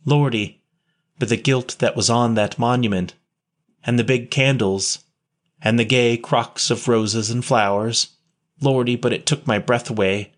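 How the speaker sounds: put-on a touch of boyish wonder; lightly enthusiastic. Boy describing the church to the nun with mild wonder. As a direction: let the memory light him up, mildly. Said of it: "Will's enthusiasm made him forget".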